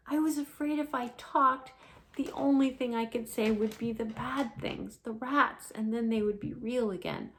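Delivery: earnest little explanation. Acted.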